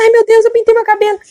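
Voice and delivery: high, loud panicky wail; imitated panicked lament. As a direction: wail in dismay, as the old woman. Reenacts old woman's panic. (imitando lamento aflito)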